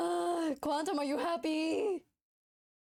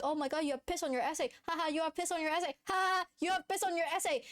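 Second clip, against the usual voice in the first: mocking friends; 3 semitones higher, much faster than usual. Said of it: "And my friends were like".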